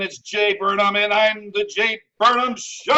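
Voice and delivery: slow announcer intro with a drawn-out last word; show announcer. Pretend. Host introducing his own show, announcer style. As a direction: stretch out the show's name like an announcer.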